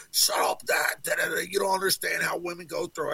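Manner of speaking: a hint of a cross daughter snapping back; exasperated daughter. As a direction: brush him off, annoyed, half-shouting. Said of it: "Geneva's like".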